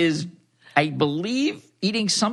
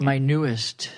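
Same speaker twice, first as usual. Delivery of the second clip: sultry storyteller voice; slower than usual. Acted. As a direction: read it like a bedtime story for grown-ups. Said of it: "we have Dipsy voice model here".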